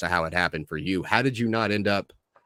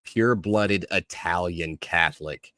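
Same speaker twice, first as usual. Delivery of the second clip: measured podcast host introduction; show host intro. Acted. Host welcoming listeners and introducing the guest, show intro delivery. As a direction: introduce the guest with deliberate pacing.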